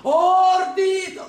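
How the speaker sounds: a sudden high, loud shouted Ordít-; demo shout. Shown as a demonstration. Lady demonstrating the servant's shout, loud and high. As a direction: show him what shouting sounds like. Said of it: "ordította".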